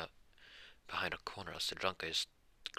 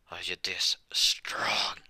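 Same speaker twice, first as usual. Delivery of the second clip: slow, louder, drawn-out strain; strained disbelief; 6 dB louder, much slower than usual. Acted. Drunk whose hand the kid is crushing, strained disbelief. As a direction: groan it out, swelling on the last word.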